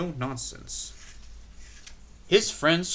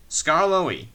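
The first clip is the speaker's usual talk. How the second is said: exclaimed; 5 semitones higher, 7 dB louder than usual. A narrator's reading. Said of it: "he exclaimed".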